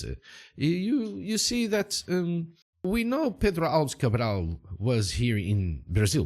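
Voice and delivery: put-on lilting, lightly accented local guide; Valdemar Silva. Boatman telling Cole of old legends, lilting character voice. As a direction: explain the legend as a foreign boatman.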